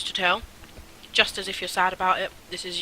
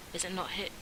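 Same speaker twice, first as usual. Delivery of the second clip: hushed, unsure "Is it not his?"; half-whispered confusion; whispered question; 8 dB quieter than usual. Shown as a demonstration. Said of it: "language translation error or something".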